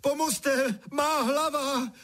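high, slow, crying scream for mum and dad; boy doused with cold water, shrieking for help. A narrator's reading. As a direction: cry out in sudden shock. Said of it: "křičel, co mu hrdlo stačilo".

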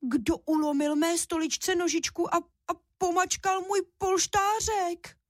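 high, thin wailing cub voice; little cub squealing in despair; tiny bear crying out, slowing at the end; desperate squeak. A narrator's reading. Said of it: "zoufale vypískl".

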